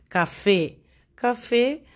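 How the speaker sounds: café with FE stressed; teacher's example word, café, weight on fé; stress on the last syllable. Shown as a demonstration. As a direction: say "café", leaning on the final fe. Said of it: "con mayor intensidad es la fe".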